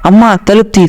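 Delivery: calling mom to open the door, angrily; angry shout. Retold or imitated. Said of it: "గట్టిగా కోపంతో".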